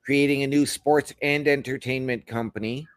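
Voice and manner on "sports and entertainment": "and" set apart with emphasis; stress on AND. Real, not acted. Co-host reading out the merger news, stress on "and". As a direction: lean on the word "and" between sports and entertainment. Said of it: "Emphasis on "and".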